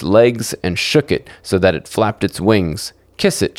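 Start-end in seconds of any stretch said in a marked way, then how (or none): 3.2-3.6 cried out. A narrator's reading. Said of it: "she cried out".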